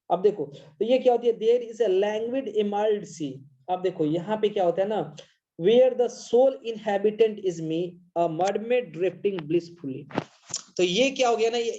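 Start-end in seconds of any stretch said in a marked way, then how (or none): 1.4-3.3 slow poem reading. Shown as a demonstration. Teacher reading Amanda's daydream to students, slow. 5.6-10.2 slow poem reading. Shown as a demonstration. Teacher reading Amanda's daydream to students, slow.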